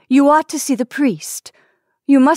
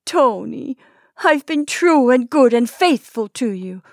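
higher, louder desperate plea; weak pleading; 5 semitones higher, 5 dB louder than usual. Acted. Wife pleading to be made a wife before he dies, desperate. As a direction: plead with him, voice straining. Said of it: "the woman's weak pleadings continued".

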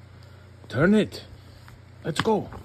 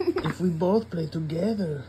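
Trevor voice; 6 semitones higher than usual. Acted. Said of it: "Trevor said to Pig".

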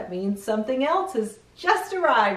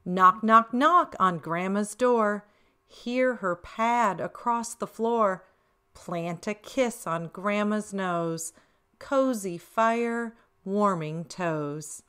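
put-on reading to children; slower than usual. A narrator's reading. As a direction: read it cozy and gentle. Reads rhyming verse.

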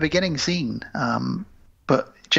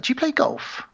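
put-on old man voice; 10 semitones higher than usual. Old guy quizzing Chris.

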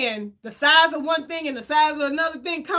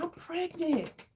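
very soft, slow, breathy-free hush; a kid scared to tell her mom, very soft and slow; hushed confession; 6 semitones higher, 10 dB quieter, much slower than usual. Retold or imitated. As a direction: drop almost to nothing and drag it out. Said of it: "I'd be like".

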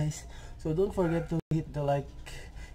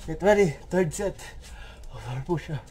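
energetic callout; 2 semitones higher, 4 dB louder than usual. Real, not acted. Calling start of third set.

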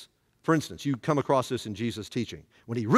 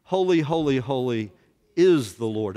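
louder, said together with the room; proclaiming with the class; 6 dB louder than usual. Shown as a demonstration. Class repeating the angels' song after the preacher, loud. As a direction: say it with them, strong. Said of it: "Would you say that with me?".

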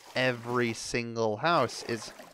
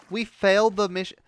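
high and loud, fuming; angry shout; 8 semitones higher, 7 dB louder than usual. Real, not acted. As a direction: yell the failure out furiously. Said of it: "I am very pissed".

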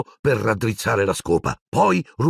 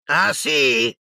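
higher, sneering oh-yeah; smirking challenge; 7 semitones higher than usual. Acted. Malfoy smirks back at Harry's threat. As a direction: smirk it, hiding worry. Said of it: "con un ghigno".

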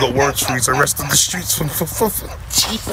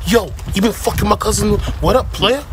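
put-on American accent; 5 semitones higher than usual. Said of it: "The American accent is pretty good".

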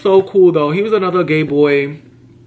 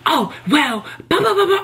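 mocking coworker; 11 semitones higher than usual.

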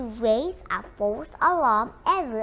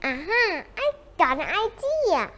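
sudden bright idea; 5 semitones higher than usual. Acted. Boy suddenly gets an idea.

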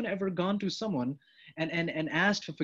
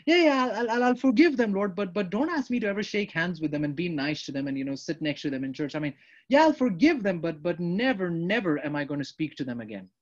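reluctant promise. Acted. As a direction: promise it, then take it back. Acted grudging forgiver prayer.

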